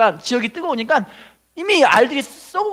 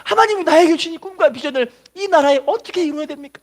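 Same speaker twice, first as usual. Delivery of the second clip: pleading prayer; 4 semitones higher than usual. Acted. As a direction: start plainly, grow into urgent pleading. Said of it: "하나님께 기도하면 물어봅니다".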